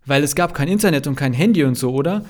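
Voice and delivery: loud, alarmed question, rising at the end; shocked question. A narrator's reading. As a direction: ask it aghast, pitching up on the last word. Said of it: "fragt Sky erschrocken". (erschrockene Nachfrage)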